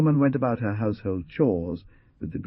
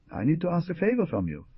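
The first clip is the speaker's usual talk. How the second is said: hesitant; 11 semitones higher than usual. Acted. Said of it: "answered with growing hesitancy".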